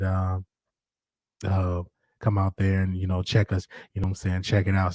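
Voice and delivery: a hint of a low morning phone voice; low and easy, just woke up; retelling a phone call to his moderator in a deep morning voice. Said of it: "I asked her, I'm like".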